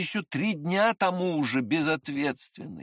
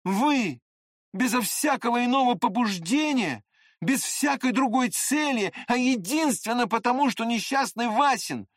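clipped out angrily; 8 semitones higher than usual. A narrator's reading. Narrator denounces the jealous prince, word by word. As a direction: hammer each word in. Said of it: "отчеканивая слова".

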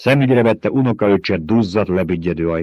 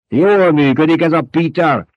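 high, loud mock praise; sly, smug appraisal; lightly voiced Baron; 9 semitones higher, 6 dB louder than usual. A narrator's reading. The Baron showing off his mentat to the nephew, mock praise.

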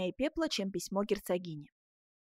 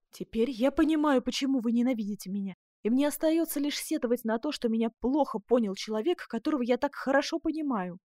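raised, pressing reproach; emotional reproach; 4 semitones higher, 5 dB louder than usual. A narrator's reading. Duchess to Ascanio who misjudged her, raised reproach. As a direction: lament being misunderstood, voice lifted and loud.

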